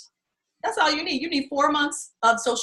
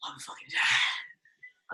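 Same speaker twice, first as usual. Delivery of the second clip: tired groan; 12 dB quieter, slower than usual. Retold or imitated. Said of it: "They be looking like".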